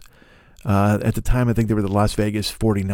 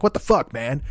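baffled outburst; 3 semitones higher than usual. Retold or imitated. Baffled by magician in breakfast.

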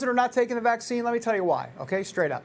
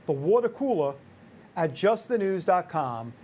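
New York accent; 3 semitones lower than usual. Shown as a demonstration. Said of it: "I'll do it in a New York accent".

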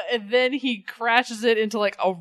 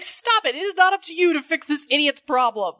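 mock exasperation; 3 semitones higher than usual. Acted exasperated scolding of heroine.

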